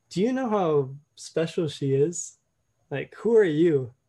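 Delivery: slow, lightly voiced gentle father; a hint of a loving father asking, slowly; God's voice in her mind, mildly fatherly and slow. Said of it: "like a fatherly voice".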